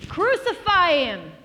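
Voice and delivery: drawn-out, high, full shout. Acted. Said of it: "they shouted all the louder".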